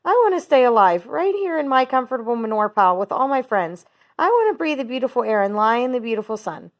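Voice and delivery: high, tearful wail; tearful pleading. A narrator's reading. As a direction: weep for the life he loves. Wilbur in tears.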